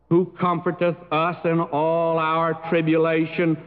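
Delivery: scripture reading. Acted. Reads scripture aloud.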